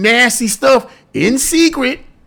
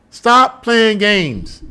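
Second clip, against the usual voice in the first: slow emphatic; much slower than usual. Shown as a demonstration. Scolding the public, very slow and stern. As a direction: Stop playing games stretched out very slowly, each word hit. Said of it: "repeats demand for emphasis".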